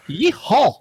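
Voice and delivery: high, loud yeehaw in a mock Asian accent; thick Asian accent. Agent obliging the prankster, loud mock Asian accent. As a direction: imitate an accented attempt at a cowboy yell, Asian accent. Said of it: "his accent was so thick".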